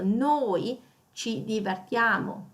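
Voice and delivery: slow, noi drawn out; stress on noi. Shown as a demonstration. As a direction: dwell on the noi. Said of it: "stress out that we".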